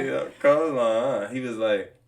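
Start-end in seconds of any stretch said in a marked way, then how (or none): 0.4-1.3 slow "coleslaw" with a questioning "huh"; Gus's questioning drawl. Retold or imitated. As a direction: imitate a boss questioning the answer. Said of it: "he always questions whatever you say".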